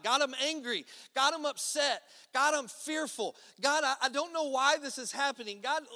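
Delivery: shouting a desperate honest prayer at God; raw loud prayer. Retold or imitated. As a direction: pour it all out, loud and raw. Voicing an angry raw prayer.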